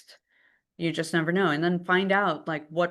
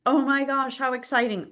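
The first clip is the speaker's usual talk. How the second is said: bright, higher, louder gush; mock excited buyer; 8 semitones higher, 4 dB louder than usual. Buyer spotting a property on Friday night, mock excited. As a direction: play the thrilled buyer, a bit hammed-up.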